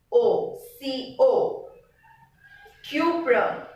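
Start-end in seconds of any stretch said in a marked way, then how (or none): 2.8-3.6 cuprum with the U stronger than the P; pronounced U. Shown as a demonstration. Teacher recapping the symbol C U, pronounced U. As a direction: lean on the YOO in cuprum. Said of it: "P is not as pronounced as U".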